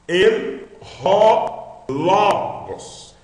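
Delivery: EM RO LOGOS very slow and high, strong LO in LOGOS; stress on LO. Shown as a demonstration. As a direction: stretch each word, leaning on LO of LOGOS. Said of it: "a primeira sílaba é mais forte".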